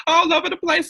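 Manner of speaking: tickled pink, letting the laugh spill out; laughing delight. Real, not acted. To the audience about her plant's babies, a laughing high burst.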